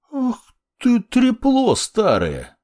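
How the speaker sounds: furious shout. A narrator's reading. Discovers deception, furious.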